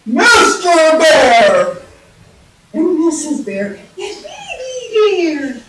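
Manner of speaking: put-on booming Mister Bear, then slow high squeaky Baby Bear; slow mock-grand roll call in bear voices; three bears' voices. Shown as a demonstration. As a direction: stretch the names, from big shout down to tiny high squeal. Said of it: "I'm talking".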